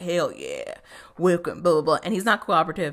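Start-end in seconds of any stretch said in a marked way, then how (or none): 0.0-2.0 put-on country accent, Southern style. Retelling what a bearded follower says in welcome: southern accent. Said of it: "He's got a southern accent rocking".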